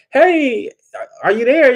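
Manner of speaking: put-on high, pleading old man on voicemail; imitating a lovesick old husband; mock old husband. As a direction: put on a frail, doting old man's voice. Calling again, high voice.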